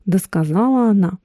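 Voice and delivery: plain reading voice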